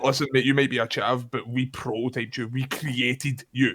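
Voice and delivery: grand putdown, drawn out at the end; mock-grandiose. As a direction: declare it like a creator to his creation. Grand comeback to the chav, played up.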